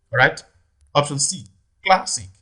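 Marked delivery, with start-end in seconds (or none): 1.8-2.3 classic with CLAS raised, second syllable light; stress on first syllable. Shown as a demonstration. Teacher checks option C for stress, classic stressed on CLAS. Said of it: "It falls on the first syllable".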